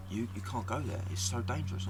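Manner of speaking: a touch of adamant pleading; adamant mum. Retold or imitated. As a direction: lightly imitate a worried, adamant mum.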